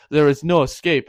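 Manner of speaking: loud, hammed-up villain declaration; mock villain threat. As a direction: announce it loudly like a movie baddie. Gunman's threat acted in retelling.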